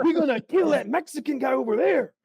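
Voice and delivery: Cholo voice. Retold or imitated. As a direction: talk like a Cholo gangster. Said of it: "I start doing a Cholo voice".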